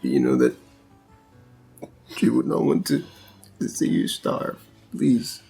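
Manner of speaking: low, hushed pleading; gentle pleading. Acted. Husband begging his grieving wife to eat, low gentle plea. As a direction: softly coax her to eat.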